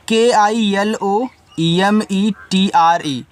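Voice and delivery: slow letter-by-letter spelling; teacher spelling out a word for students. Shown as a demonstration. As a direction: spell out each letter slowly and deliberately. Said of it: "देखो इसको पढ़ते हैं".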